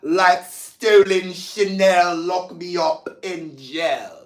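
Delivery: slow, drawn-out attempt at a British accent. Host showing off lyrics to viewers in a playful British accent. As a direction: put on your best British accent, stretching the words. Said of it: "That was my best British accent".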